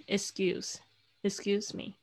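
"excuse me" with the c as a g, "ik-sgyooz me"; C softened to g. Shown as a demonstration. Teacher explaining the C sound, "excuse" said "ik-sgyooz". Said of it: "会发成咯的声音".

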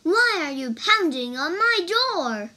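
loud, high indignant question; demanding. A narrator's reading. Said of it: "demanded the woman".

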